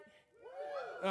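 whispered woo. Shown as a demonstration. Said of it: "Everybody say that with me".

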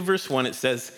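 slightly winded after walking the aisles; out of breath. Real, not acted. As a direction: speak a little short of breath. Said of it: "why am I out of breath?".

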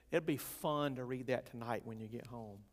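dry, tongue-in-cheek; facetious. Real, not acted. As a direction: say it with a wink. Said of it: "I say that facetiously".

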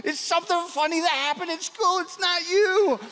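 high, strained cover-up of stifled laughter; pretending not to laugh. Brother reassuring sister he isn't laughing at her, badly suppressed laughter. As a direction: deny it in a high voice, badly faking innocence. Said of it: "pretending like I wasn't laughing at her".

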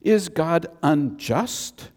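a touch of a thoughtful apostle; pondering Paul. Retold or imitated. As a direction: wonder it aloud like Paul weighing it. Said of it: "picture him kind of scratching his chin".

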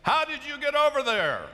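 high, bleating sheep voice; high-pitched mock sheep talk. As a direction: call it out like a puzzled sheep. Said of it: "one is saying".

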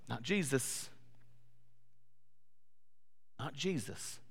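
soft, sobered aside; quiet, measured correction; hushed contrast. Real, not acted. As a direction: drop right down after the outburst. Hushed contrast after loud retort.

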